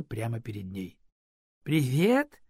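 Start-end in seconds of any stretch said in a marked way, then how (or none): 1.6-2.4 cheerful. Acted. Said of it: "весело сказала она".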